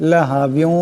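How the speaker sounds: লাহা বিউ with the tanween merged into ওয়াও, nasalised; idgham with ghunnah. Shown as a demonstration. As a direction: blend বিউ into the next word with a nasal hum. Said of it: "এমন করে". (ঈদগাম সহ গুন্নাহ)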